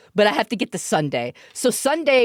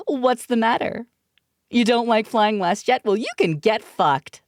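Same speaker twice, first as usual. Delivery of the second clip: mock stewardess voice; 3 semitones higher than usual. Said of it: "stewardess voice acting".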